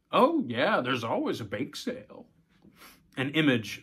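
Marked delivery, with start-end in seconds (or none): 0.1-2.3 a hint of an amused dad; lightly voiced father. Father assuring daughter there's always a bake sale, light. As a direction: jump up on oh, yeah then settle.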